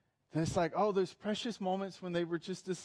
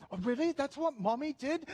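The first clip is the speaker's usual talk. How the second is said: astonished grandchild; 6 semitones higher than usual. Acted. Acted grandchild questioning granddad.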